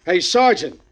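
a cop dismissing a bum with slow contempt; stern police captain. Acted. Police interrogating a vagrant.

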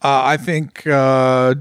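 usual speaking voice

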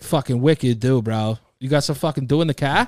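quick, light Boston accent, "wicked" leaned on. Shown as a demonstration. Riffing on Massachusetts soda, a fast light Boston bro voice. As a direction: play a Massachusetts bro asking for Dew. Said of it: "I gotta hear it".

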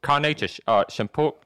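lightly put-on movie character voice; guy from Batman. Batman character ordering tacos, lightly put-on slurred voice. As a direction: do a slurred Batman-film voice, hesitantly. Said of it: "the guy from Batman".

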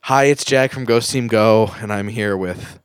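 downcast, unwilling intro; reluctant ad read. Pretend. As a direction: introduce yourself like you dread doing this. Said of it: "The tone of your voice".

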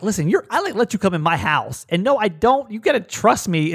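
mildly heated plea to be believed; retold pissed-off protest. Man pleading with his date to trust him, mildly pissed. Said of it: "like, pissed".

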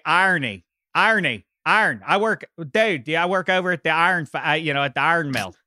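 put-on a light Pittsburgh accent, "iron" said like "arn". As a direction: playfully mimic a Pittsburgh mill worker. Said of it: "I'm gonna fall back on my roots".

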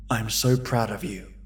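soft whispered praise. Acted. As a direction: whisper it tenderly. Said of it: "I whispered".

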